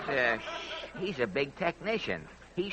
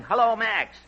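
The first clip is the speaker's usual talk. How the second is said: high, louder mock holler; mimicked yelling; 6 semitones higher, 6 dB louder than usual. Comedian quoting the technician's yell back at him, mimicked yelling. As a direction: imitate the technician's yelled test call. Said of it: "woofing and yelling".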